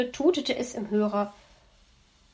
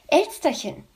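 mimicking the fox; 5 semitones higher, 3 dB louder than usual. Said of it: "wird er dann sagen".

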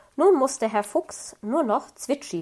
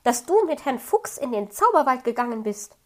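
put-on higher, louder excited animal child; an excited young animal calls out to the fox cub, loud; called out; 6 semitones higher, 6 dB louder than usual. A narrator's reading. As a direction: call it out eagerly, quickly at first. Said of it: "rief Borstel".

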